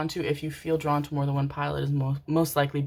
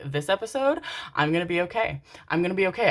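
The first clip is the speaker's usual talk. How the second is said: higher-pitched reassuring self-talk; retold self-reassurance; 3 semitones higher, faster than usual. Viewer bracing herself for the episode, higher self-reassuring tone. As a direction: talk yourself into coping. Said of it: "self-talk, mantra".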